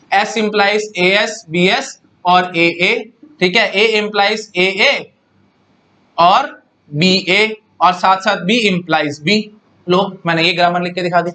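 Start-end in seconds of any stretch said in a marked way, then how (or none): 0.1-9.4 symbols read out one by one, very slow; slow dictation. Shown as a demonstration. Teacher writing grammar for students, slow dictation. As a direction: spell out the rules for copying.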